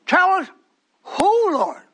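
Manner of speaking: loud, high mocking demand; demanding crowd. Preacher mimicking people who demand answers, loud and high. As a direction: call it out like a pushy crowd.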